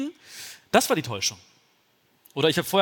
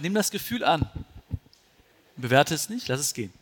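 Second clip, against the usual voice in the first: calm, patient repeat; calm advice repeated patiently; patient repetition. Retold or imitated. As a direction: say it again gently, as the friend. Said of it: "Er meinte".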